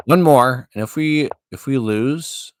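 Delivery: high, loud announcement; loud declaration. Real, not acted. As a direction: announce it boldly. Declaring final game, raised voice.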